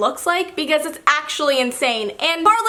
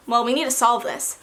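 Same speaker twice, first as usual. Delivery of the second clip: mild concern; 2 semitones lower than usual. Acted. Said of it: "the mystery goes from".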